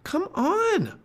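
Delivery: very high-pitched call; Annie shouting. A narrator's reading. Girl shouting from the treehouse window, high and urgent. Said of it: "Annie was shouting from the treehouse window".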